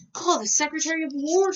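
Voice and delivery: stuck president yells for his secretary; shouted order. A narrator's reading. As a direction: yell it out from the tub. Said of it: "shouted President Taft".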